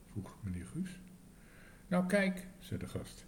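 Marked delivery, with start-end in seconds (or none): 1.9-2.5 indignant guest. A narrator's reading. Guest starts complaint, high.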